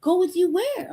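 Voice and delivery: high innocent pet voice; voicing the cat. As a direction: naive cat asking. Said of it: "cat voiced".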